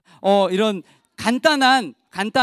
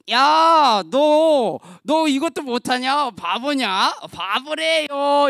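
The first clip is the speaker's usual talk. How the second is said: mock teasing of a friend; drawn-out schoolyard jeer; playful taunting; much slower than usual. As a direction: tease like a kid, stretching the last jeer. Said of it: "이렇게 막 놀렸어요".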